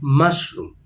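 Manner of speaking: teacher demonstrates first-syllable stress in mushroom; stress on first part. Shown as a demonstration. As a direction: lean on MUSH in mushroom, let room fall away. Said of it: "the stress is on the first part of the word".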